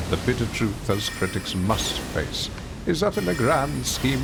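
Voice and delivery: measured, dramatic critic's monologue; lightly voiced haughty critic reading his review; reciting a film critic's speech. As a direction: deliver it like a haughty food critic.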